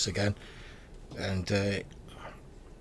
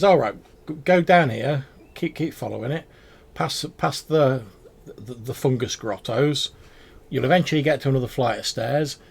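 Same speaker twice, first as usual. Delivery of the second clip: goblin giving directions; 4 semitones higher, 5 dB louder than usual. Acted. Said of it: "He says".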